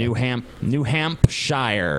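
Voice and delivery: "New Hampshire" said slowly as "hamp-shyer"; mock British "New Hampshire" with a slow "shire". Shown as a demonstration. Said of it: "spelled the same way".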